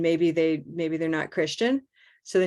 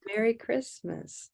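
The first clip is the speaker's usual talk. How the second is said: "Merry Christmas" said slowly, softer, stress on "Christmas"; higher, slow model with the weight on "Christmas"; regular stress; 4 semitones higher, 7 dB quieter, slower than usual. Shown as a demonstration. Teacher modelling it for a student to repeat, regular stress on "Christmas". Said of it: "with stress on the second word".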